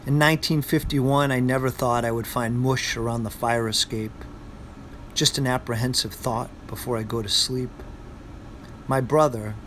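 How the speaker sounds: put-on poem read in a Boston accent. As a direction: recite it like a Bostonian. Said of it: "Famous Poems with a Boston Accent".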